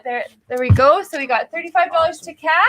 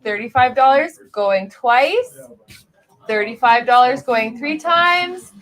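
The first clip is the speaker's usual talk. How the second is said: auctioneer countdown; 4 dB louder, slower than usual. Acted. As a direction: drag out the final sold call. Auctioneer closing the sale.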